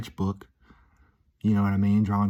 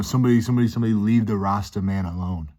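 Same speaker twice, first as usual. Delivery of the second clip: attempted Jamaican accent, opening louder then easing; imitated Jamaican singer; 3 dB louder, faster than usual. Retelling the funny song's repeated line, imitated Jamaican accent. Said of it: "he just kept singing, like".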